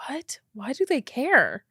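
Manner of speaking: stunned whisper to herself. Real, not acted. Reacting to a Reddit post, whispering in disbelief. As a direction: breathe it out in disbelief.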